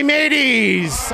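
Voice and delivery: laughing pirate call to the crowd; hearty buccaneer greeting; pirate shout. Acted. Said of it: "Talk Like a Pirate Day".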